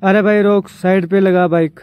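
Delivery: loud call to a passing biker; calling out loudly. Real, not acted. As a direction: shout over the traffic to stop him. (ज़ोर से आवाज़ लगाना)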